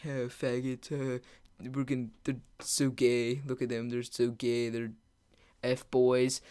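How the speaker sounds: hushed, low muttered jeering; imitated whispering. Friends whispering about a rival group, imitated hushed jeering. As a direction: imitate friends sniping under their breath. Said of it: "like, whispering, they're like".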